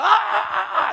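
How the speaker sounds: high, loud drawn-out cries of ah; hammed-up loud groaning prayer; mock wailing prayer. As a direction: imitate a loud wailing pray-er. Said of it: "우리 이렇게 기도하잖아요".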